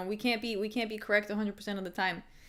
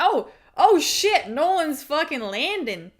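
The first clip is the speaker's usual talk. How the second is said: higher, louder, slower shocked shout; shocked excitement; 5 semitones higher, 8 dB louder, slower than usual. Real, not acted. Streamer yelling as Nolan lands punches, shocked. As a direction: gasp out loud as punches land.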